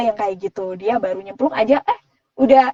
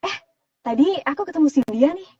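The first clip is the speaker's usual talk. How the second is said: casual chat in a middle register; natural mid-voice demo, slightly lifted; chatty everyday middle voice; 4 semitones higher, 3 dB quieter than usual. Shown as a demonstration. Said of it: "middle kayak gitu".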